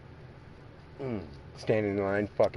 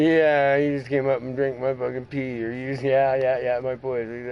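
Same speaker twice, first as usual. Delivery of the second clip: mocking retort; 5 dB louder than usual. Acting out the depressed man's retort.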